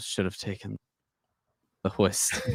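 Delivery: soft, hushed whisper under the breath. Describing climbing the stairs, whispering to himself. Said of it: "I'll whisper to myself".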